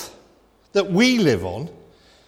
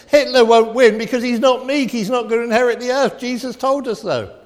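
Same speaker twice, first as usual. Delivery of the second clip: imagined wartime sermon; 7 semitones higher, 4 dB louder than usual. Acted. Voicing the sermon that should be.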